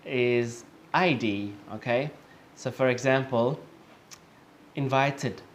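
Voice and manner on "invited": "invited" ending in a separate "id" syllable; careful model "invited" with the last syllable sounded. Shown as a demonstration. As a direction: demonstrate "invited" as "in-vite-id". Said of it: "notice how it sounds like an I D".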